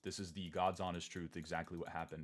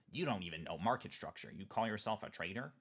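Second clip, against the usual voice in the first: mocking critic. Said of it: "people came in and said".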